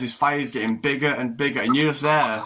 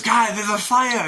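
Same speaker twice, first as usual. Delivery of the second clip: raised, higher alarmed call, drawn out; mock alarm call; 7 semitones higher, slower than usual. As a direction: sound the alarm to the crew on deck. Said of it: "somebody runs in and goes".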